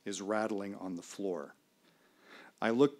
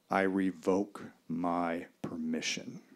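firm, calm declaration; 4 semitones lower, slower than usual. Retold or imitated. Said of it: "I say four simple words".

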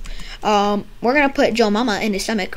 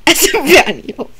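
put-on slow laughing Spanish-accented Espanol; mock Spanish accent; 4 semitones higher, much slower than usual. Patient speaking Espanol in mock Spanish accent. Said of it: "put Spanish into it".

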